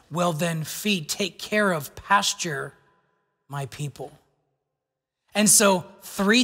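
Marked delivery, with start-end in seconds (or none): 0.1-4.2 gentle quiet command. Acted. Jesus' gentle commission to Peter.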